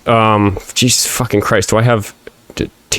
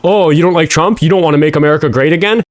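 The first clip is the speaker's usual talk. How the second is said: mocking Trump supporter; 6 semitones higher than usual. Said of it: "they still get the fucking talking point".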